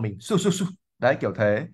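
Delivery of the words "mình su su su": shooing sound. Shown as a demonstration. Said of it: "mình muốn đuổi một cái con chó".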